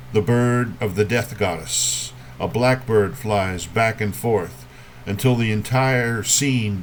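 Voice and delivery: measured poem reading with long pauses between images; poetry reading. Acted. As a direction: lift each opening phrase, let the line settle. Reads a poem to an audience.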